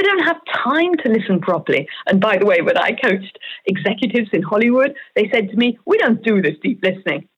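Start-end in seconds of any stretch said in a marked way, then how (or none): 5.9-7.3 a self-mocking American accent, lightly done; mock American executive, barely accented; bad American accent. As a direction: put on a weak Hollywood American accent. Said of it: "That's my bad American accent".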